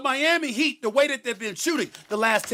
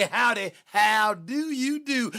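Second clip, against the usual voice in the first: slow, drawn-out Southern howdy; mock Southern accent; much slower than usual. Debater mocking his rival's fake cowboy act, mock Southern accent. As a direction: stretch it into a fake Southern greeting. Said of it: "Can't even do an accent".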